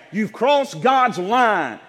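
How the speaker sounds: slow, shouted warning; preaching shout. Real, not acted. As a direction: drive it home word by word. Preacher hammering home trespass.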